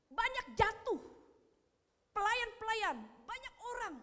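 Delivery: high, loud, measured exhortation; emphatic preaching. Acted. Preacher urging a return to God's word, emphatic preaching. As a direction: drive each phrase home from the pulpit.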